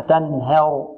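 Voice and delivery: تنهر with the ه leaning to "he"; تنهر said as "tan-her"; tilted fatha. Shown as a demonstration. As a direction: tilt the vowel after ه in تنهر toward "e". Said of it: "ونحذر من تقليل الفتحة".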